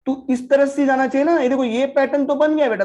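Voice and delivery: teacher chiding the market line with mock disappointment; mock scolding the market. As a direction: scold the chart like a naughty child.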